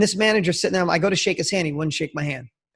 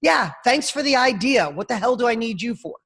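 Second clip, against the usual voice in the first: higher-pitched sarcastic brush-off; imitating a manager's ridicule; mocking dismissal; 3 semitones higher than usual. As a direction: wave the kid away with scorn. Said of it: "completely ridiculing me".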